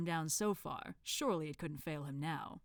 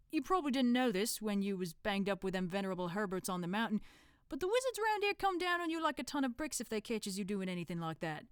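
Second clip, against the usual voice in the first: put-on Cockney accent; 3 semitones higher than usual. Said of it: "thick Cockney accent".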